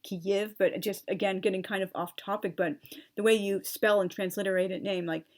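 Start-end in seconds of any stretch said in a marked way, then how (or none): 0.0-0.5 Kyiv said slowly and carefully, as the correct pronunciation; slow, deliberate Kyiv; Kyiv, said properly. Shown as a demonstration. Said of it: "use that pronunciation".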